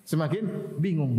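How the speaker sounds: "Semakin bingung" drawn out slowly, both words stretched; slow it right down to drive it home; slow emphatic repeat. Shown as a demonstration. Preacher repeating the point to his audience, slow and weighty.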